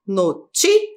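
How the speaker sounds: "Notícia" broken into no, tí, cia with pauses; syllable separation. Shown as a demonstration. Teacher separating syllables for pupils, syllable by syllable. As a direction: sound out "Notícia" piece by piece. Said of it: "a gente faz a separação de sílabas".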